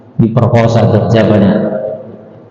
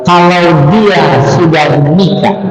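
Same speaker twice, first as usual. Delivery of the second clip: raised, firm pronouncement of the law; stern Umar; 4 semitones higher than usual. Acted. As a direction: lay down the law as a stern caliph. (suara Umar yang tegas dan tinggi)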